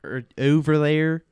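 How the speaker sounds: slow Philly demo, drawn-out O vowels; Philly accent. Shown as a demonstration. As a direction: stretch the O's like a Philadelphian. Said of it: "Philly is more".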